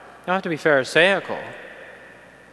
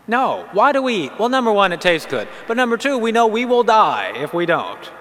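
normal talking voice

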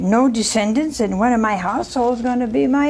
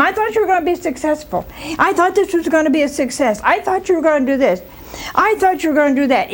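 nagging wife; 5 semitones higher, faster than usual. Acted.

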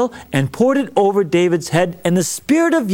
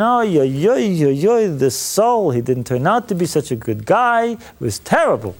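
moping lament. Retold or imitated. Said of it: "Moping around saying".

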